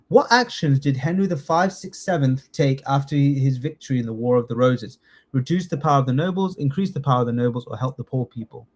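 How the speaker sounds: quick second reading. Shown as a demonstration. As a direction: rattle the question off quickly. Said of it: "rereads the quiz question".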